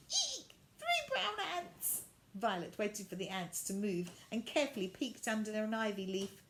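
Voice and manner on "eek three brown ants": startled. A narrator's reading. Violet startled by ants.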